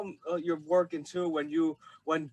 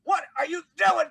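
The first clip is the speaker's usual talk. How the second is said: high, loud mock screaming; imitated scream; 11 semitones higher, 6 dB louder than usual. Fan reenacts the colonel's background screaming, imitated high shout. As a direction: shout it like a frantic game character in the background. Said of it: "you're, like, screaming in the background".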